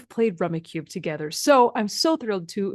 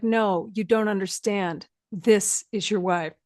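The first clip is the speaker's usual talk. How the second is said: slow, dead-straight cop delivery; slow and grave, not a hint of a joke; deadpan detective; slower than usual. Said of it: "like a Law and Order detective".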